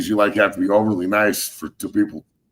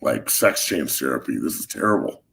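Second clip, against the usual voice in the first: real hoarseness, lower at times; hoarse voice; 3 semitones lower than usual. Real, not acted. Podcast guest complaining his voice is gone, real hoarse voice. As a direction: voice worn out and not coming back. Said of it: "I sound like Kathleen Turner".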